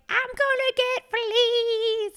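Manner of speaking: high, slow mock panic; wife mocking Betty's flea panic, high whine; panicked friend. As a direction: squeal it like a worried friend. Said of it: "she was like".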